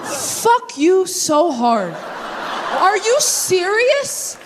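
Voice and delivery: slow laughing disbelief, pitch up. Real, not acted. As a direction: crack up in delighted disbelief.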